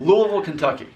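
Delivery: "Louisville" slurred to LOO-uh-vul; local pronunciation. Shown as a demonstration. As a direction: run "Louisville" together with a swallowed ending. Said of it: "is the right way you say it".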